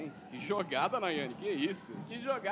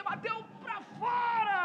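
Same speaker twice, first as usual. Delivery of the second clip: excited; 6 semitones higher, slower than usual. Real, not acted. Shot goes wide.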